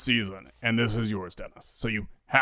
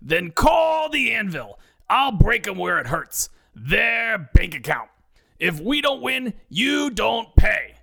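slow, high, shouted Brooklyn pitch; Brooklyn accent; 11 semitones higher, 4 dB louder, slower than usual. Acted. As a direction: bellow it like a Brooklyn TV ad. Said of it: "the Anvil concludes in his pitch".

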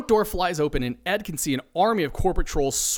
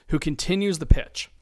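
ordinary delivery

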